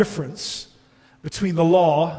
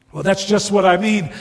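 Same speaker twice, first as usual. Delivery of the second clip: fast, louder retort; indignant ghost; 3 semitones higher, 5 dB louder, faster than usual. Acted. Ghost challenging the bright man's rebuke, indignant. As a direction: argue back, affronted.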